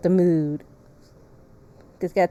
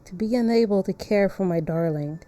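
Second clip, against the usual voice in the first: slightly lowered, measured narration with pauses; story narration; 3 semitones lower, 6 dB quieter than usual. Acted. Streamer reading the painter's sad story, subdued narration. Reads game narration aloud.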